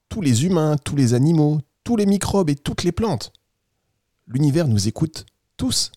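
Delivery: lightly voiced kindly storybook squirrel; friendly squirrel. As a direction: play a helpful little animal reassuring a child. Plays Noisette the squirrel. (écureuil bienveillant, à peine joué)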